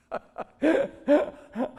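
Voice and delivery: delighted chuckle breaking through; real laugh. Real, not acted. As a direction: burst of high, loud laughter. Laughs at his own point.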